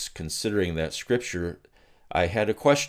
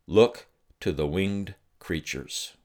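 slow, measured voice of the Father; God's words, slow. Retold or imitated. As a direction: let each word land slowly. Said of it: "this is what he said".

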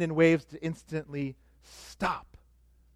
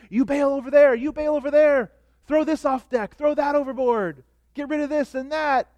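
panicked shouting; 7 semitones higher than usual. Retold or imitated. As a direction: yell orders like panicking sailors. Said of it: "as they're screaming".

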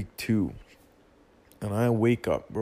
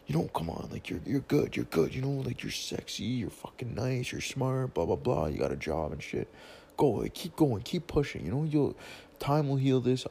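encouraging; 3 semitones higher than usual. Retold or imitated. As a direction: gently cheer her on, a little higher. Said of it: "I'm like".

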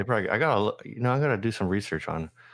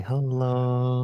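higher, held-out Korean greeting; sing-song Korean hello; 4 semitones higher than usual. Retold or imitated. Imitating Korean store greeters, a drawn-out sing-song hello. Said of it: "It's always a sing".

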